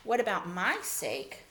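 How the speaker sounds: mildly indignant demonstration; a touch of resentment. Shown as a demonstration. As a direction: lean on "my" as if slighted. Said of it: "in, in an indignant way".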